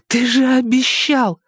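accusing mother. A narrator's reading. Mother accusing Erik, slow loud angry reproach. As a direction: hurl the broken promise at him.

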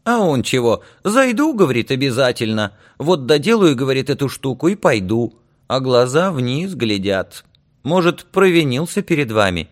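high-pitched village woman; high, animated aunt recounting a scolding; talkative aunt, puzzled and chiding. Acted. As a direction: chatter on in a high voice, reproachfully. Aunt reports the boy's answer.

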